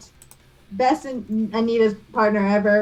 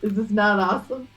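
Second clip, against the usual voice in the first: put-on French accent. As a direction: show off proudly in the French lilt. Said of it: "I'm killing this accent".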